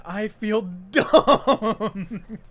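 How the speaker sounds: drawn-out laugh through the words; cracking up at own goof; slow giggle mid-line. Real, not acted. Embarrassed at own mistake.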